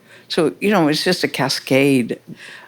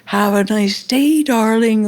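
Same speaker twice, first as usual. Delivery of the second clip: sweet mother; 5 semitones higher than usual. Retold or imitated. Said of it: "they go".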